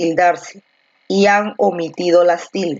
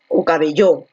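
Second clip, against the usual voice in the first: "cabello" stressed on final LLO; misplaced stress; 4 semitones lower than usual. Shown as a demonstration. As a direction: wrongly hit the last syllable of "cabello". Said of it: "Donde la fuerza de voz está aquí en B".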